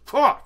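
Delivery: short, loud high huff; a sudden sharp "huh"; one loud huff; death-glare huff. Acted. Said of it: "you know, death glare".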